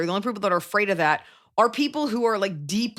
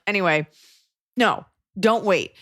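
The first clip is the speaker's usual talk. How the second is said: ordinary talk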